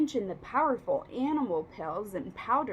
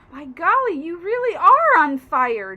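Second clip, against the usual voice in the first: put-on surprised boy; 3 semitones higher, 11 dB louder than usual. A narrator's reading. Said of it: "George said".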